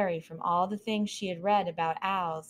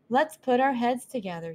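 high, lively little mouse voice; a curious young mouse asking; curious mouse girl; 5 semitones higher, 5 dB louder than usual. Acted. Mouse takes charge.

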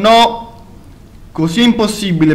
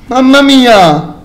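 shaken; 6 semitones higher, 6 dB louder, slower than usual. Real, not acted. After scare.

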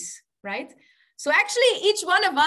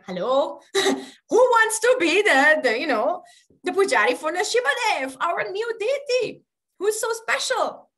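raised, high-pitched call to a silent room; calling for a volunteer; 5 semitones higher, 5 dB louder than usual. Retold or imitated. Temple president asking the assembly for a pujari, calling out. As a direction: put the question out loud and high, half laughing.

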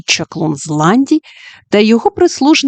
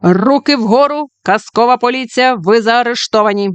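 police command; 3 semitones higher than usual. Acted. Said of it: "вигукнув Бровко Барбосович".

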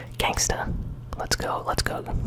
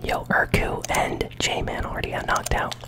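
ASMR whisper. Real, not acted. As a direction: whisper close to the mic. ASMR gaming whisper throughout.

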